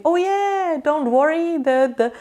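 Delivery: lightly mock a friend who says it's all fine; a hint of a syrupy yes-man; mock enabling friend. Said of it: "I'm not gonna say".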